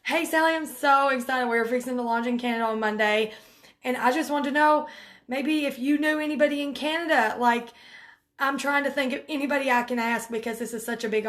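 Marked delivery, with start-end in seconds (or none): 0.0-7.3 excited voice message. Shown as a demonstration. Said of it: "let 'em hear your voice".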